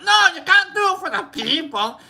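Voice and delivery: high-pitched hammed-up refusal; mock objection. Friends arguing back at the streamer, high mock protest. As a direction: imitate everyone protesting at once.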